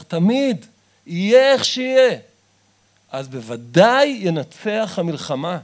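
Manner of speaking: building to a loud, ringing call; fiery preaching. Acted. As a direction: preach it hard, climbing to the peak. Rousing the listeners to cry out.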